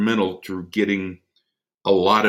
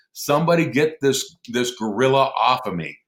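mild mock scream; 3 semitones higher than usual. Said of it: "he's screaming at the top of his lungs".

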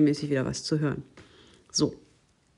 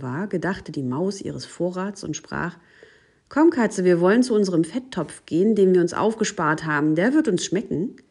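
lebhaft betontes Vorlesen für ein Kind; Märchenlesung; 4 dB louder than usual. A narrator's reading. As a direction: read a fairy tale aloud with gently acted dialogue. Liest ein Märchen vor. (lebendig erzähltes Märchen)

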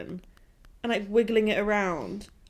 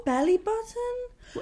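incredulous; 12 semitones higher, slower than usual. Real, not acted. Incredulous repeat.

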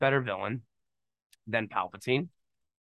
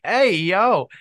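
mock call-out; 5 semitones higher, 6 dB louder than usual. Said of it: "looks back at the camera and is like".

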